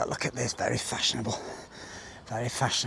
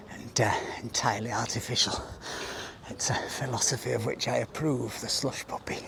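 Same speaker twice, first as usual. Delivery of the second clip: mock guilty whisper; 6 dB quieter than usual. Real, not acted. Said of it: "whispered aside continues".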